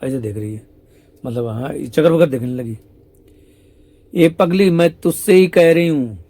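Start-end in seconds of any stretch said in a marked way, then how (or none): 4.1-6.2 mock scolding. Shyam Sundar scolds the sakhi.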